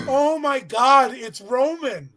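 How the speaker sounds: stunned as he recognizes him; slow excited recognition; surprised. Retold or imitated. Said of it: "I'm like".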